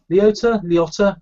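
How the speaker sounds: Liotta tried high, then again with a rise; trying the name. Shown as a demonstration. Cohost testing the actor's name aloud, questioning.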